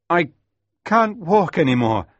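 high, loud strained call; pained cry. A narrator's reading. Injured boy tells smuggler his leg fails, pained cry. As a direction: call out hurt, unable to go on.

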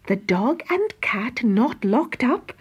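a touch of theatrical fretting; mock alarmed Lucy. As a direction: pretend the house is in danger.

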